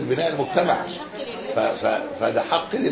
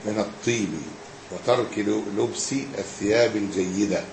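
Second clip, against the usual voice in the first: measured classical Arabic reading; formal text reading; 2 semitones lower, 4 dB quieter than usual. Acted. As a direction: read the text out evenly, with pauses between phrases. Reads the book aloud.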